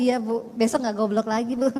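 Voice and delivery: sheepish laughing reply. Retold or imitated. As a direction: answer the boss sheepishly. Employee replies meekly, laughing. (menjawab malu-malu sambil tertawa)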